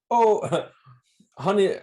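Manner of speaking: high, laughing mock Homer; a hammed-up cheery call; imitating Homer. Homer arriving at the Flanders house, laughing mock greeting. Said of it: "he goes".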